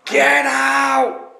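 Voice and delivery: high ghostly shout. Acted. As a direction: cry out like a distant spirit. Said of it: "but in a faint, ghostly voice".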